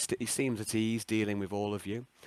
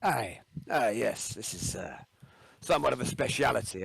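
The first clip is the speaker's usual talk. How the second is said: put-on Scottish accent. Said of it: "Scottish accent".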